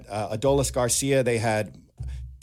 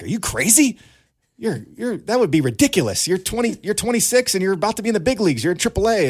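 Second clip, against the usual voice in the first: high, loud disbelieving outburst; mock his parents shouting in disbelief; incredulous parents; 10 semitones higher, 6 dB louder than usual. Parents scoff at his catcher idea.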